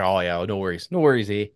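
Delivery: lighter Canadian "Oh, yeah"; easy Canadian accent, casual. Shown as a demonstration. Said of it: "re-say it in a Canadian accent".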